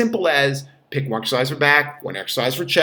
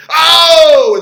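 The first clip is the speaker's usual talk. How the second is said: loud high yelp of pain; 13 semitones higher, 13 dB louder than usual. Retold or imitated. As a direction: yelp like something just hurt inside. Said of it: "sounded like Andrew Dice Clay".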